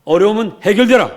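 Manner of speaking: loud, high-pitched commands; preacher commanding obstacles to move. Shown as a demonstration. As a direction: fire off orders with authority. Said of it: "이렇게 명령하시기를 축복합니다".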